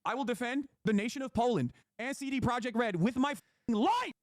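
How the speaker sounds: heated vow. Real, not acted. Pledging loyalty to CD Projekt Red.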